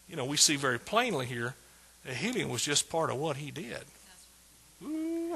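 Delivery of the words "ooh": long, high, held ooh; quiet high-pitched cry of delight; high soft whoop. Real, not acted. Preacher savoring healing in scripture, high soft ooh. Spontaneous rejoicing between points.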